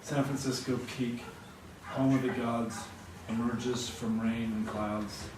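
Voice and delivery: unhurried recital with phrases settling downward; poem reading. Acted. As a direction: read it line by line, pausing after each image. Reads a poem aloud.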